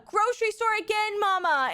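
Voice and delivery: high, loud mock toddler wail; toddler yelling. Mom imitating her son in the grocery store, high public yell. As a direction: call it out like a child in a shop. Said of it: "he'll be yelling at in public".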